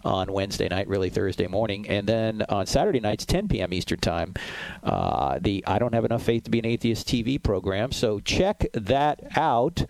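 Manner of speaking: upbeat announcer plugging the TV program; radio announcer read. Acted. Host welcoming radio listeners back with schedule plugs, announcer read.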